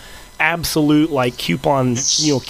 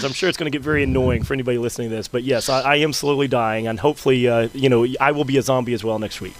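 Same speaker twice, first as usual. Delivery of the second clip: hoarse, ill voice; sick voice. Real, not acted. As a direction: talk through a sore, sick throat. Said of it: "listening to me slowly die".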